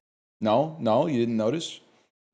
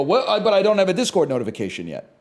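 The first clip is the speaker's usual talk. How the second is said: mock confusion; 5 semitones higher, faster than usual. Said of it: "even I have to go".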